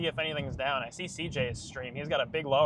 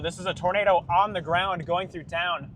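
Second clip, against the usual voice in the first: breathless shouting over wind; 3 semitones higher, 5 dB louder than usual. Real, not acted. Storm chaser urgent live warning.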